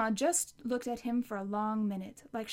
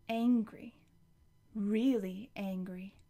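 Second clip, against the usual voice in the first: whispered narration; slower than usual. A narrator's reading. Narrator revealing the grandma's anger, whispered. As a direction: hush the words to a whisper.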